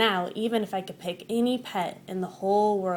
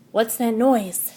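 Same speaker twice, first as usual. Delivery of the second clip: gasping, slow frightened question; startled whisper-to-loud fear; scared gasp; 6 dB louder, slower than usual. Acted. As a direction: gasp then ask in fright. Scared waking.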